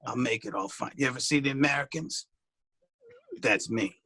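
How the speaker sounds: low, hushed secret-agent pundit; spy Stephen A. Acted. Pundit pretending to be a spy, low and hushed. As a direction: murmur like a pundit undercover. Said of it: "This is the level I actually speak at".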